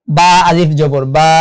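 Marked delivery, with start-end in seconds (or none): 1.2-1.3 "বা" with a held long "aa"; drawn-out "বা"; one-alif stretch. Shown as a demonstration. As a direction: stretch the vowel of "বা" evenly. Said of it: "একালিফ টেনে পড়তে হবে".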